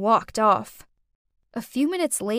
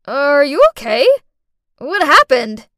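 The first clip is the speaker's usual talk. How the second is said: alarmed concern; 3 semitones higher, 10 dB louder than usual. A narrator's reading. Friend rushes to fallen child.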